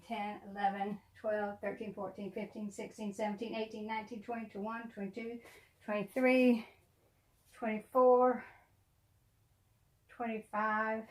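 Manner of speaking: very soft, under-the-breath count; tally quietly to yourself; barely voiced running count; counting to oneself. Real, not acted. Counting her dolls to herself.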